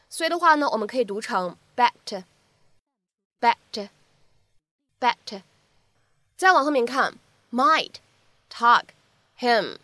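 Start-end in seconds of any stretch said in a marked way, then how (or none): 1.8-5.4 "backed" said very slowly, final consonant held unreleased; lost plosion demo. Shown as a demonstration. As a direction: drag out "backed", swallowing the plosive. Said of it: "明显的失去爆破".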